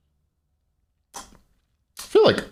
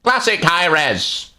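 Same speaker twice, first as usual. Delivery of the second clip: high, stretched-out catchphrase voice; mimicking a high-pitched catchphrase; Hindu Man impression; 9 semitones higher, slower than usual. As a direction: call it out high and slow. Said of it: "my best Hindu Man accent".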